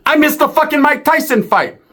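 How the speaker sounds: high, hammed-up complaint; mock lament. Storyteller's punchline to the audience, high mock lament. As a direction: wail it like the real tragedy.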